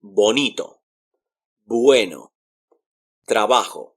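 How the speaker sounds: Bonito, Bueno, Trabajo with a clear b; careful Spanish b in Bonito, Bueno, Trabajo; Spanish B sound. Shown as a demonstration. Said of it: "And B sounds like B".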